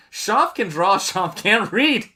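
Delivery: slow, laughing high and loud. Real, not acted. Streamer laughing at a viewer's message, slow high laughter. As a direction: crack up at the misread chat.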